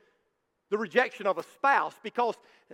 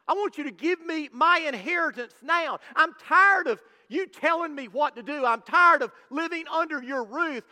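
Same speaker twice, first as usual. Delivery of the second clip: raised, demanding voice of a rebellious son; defiant demanding son; 3 semitones higher than usual. Acted. Son demands his inheritance from his father, defiant and raised. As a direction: command it like a son who wants his father gone. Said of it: "this younger brother was saying".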